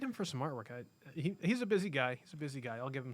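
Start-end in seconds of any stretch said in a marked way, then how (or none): 2.1-2.8 much softer, under the breath; quiet aside. Real, not acted. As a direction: repeat it to yourself, softly. Repeats line, second muttered.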